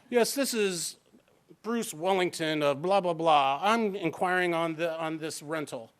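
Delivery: put-on a light posh English accent; a hint of a prim British aristocrat; prim English nobleman. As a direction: play it like an English nobleman with a monocle. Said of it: "real prim and proper, like, you know, English nobleman with the monocle".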